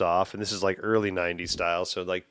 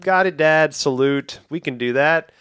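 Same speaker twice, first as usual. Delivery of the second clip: higher, louder, snappy yes-sir reply; eager obedient kid; 7 semitones higher, 7 dB louder than usual. Retold or imitated. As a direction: salute it back like an eager boy. Kid answering dad on phone.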